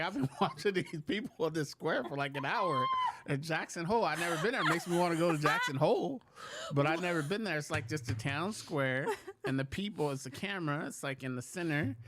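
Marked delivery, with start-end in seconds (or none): 0.0-7.6 retells his own words through laughter; laughing at himself while quoting; laughing retelling. Retold or imitated. Host laughs recalling watching a webcam for an hour. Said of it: "and I was like".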